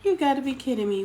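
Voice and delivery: surprised disbelief. Real, not acted. Reacting to a viewer comment.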